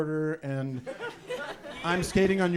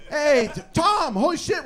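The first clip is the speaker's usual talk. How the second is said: acted surprised greeting; 7 semitones higher, 3 dB louder than usual. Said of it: "back in the grocery store".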